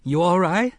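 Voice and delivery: put-on a boy calling down, high and anxious; worried check from above; nervous call. A narrator's reading. Boy calling down into the cellar, nervous. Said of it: "Jake called down nervously".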